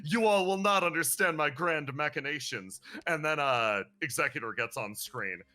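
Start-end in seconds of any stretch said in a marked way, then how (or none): 0.1-2.8 mock mysterious riddler. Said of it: "distant and mysterious and speak entirely in riddles".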